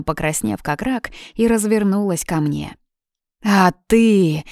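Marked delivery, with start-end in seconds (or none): 3.4-4.4 angry accusation. Acted. Blonde turns on sister.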